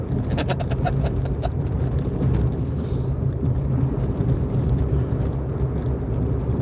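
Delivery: long wheezing laugh without voice; wheezy laugh. Real, not acted. Streamer amused about hearing her accent, wheezy laugh. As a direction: laugh in long breathy pulses.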